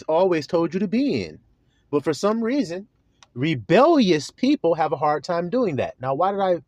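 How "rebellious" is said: "rebellious" stretched with a pitch swell; emphasis on rebellious. Real, not acted. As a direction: lean hard on the word "rebellious". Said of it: "emphasize rebellious like that".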